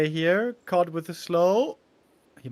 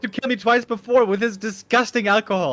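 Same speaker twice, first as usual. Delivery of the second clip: mock outrage; 4 semitones higher, 8 dB louder than usual.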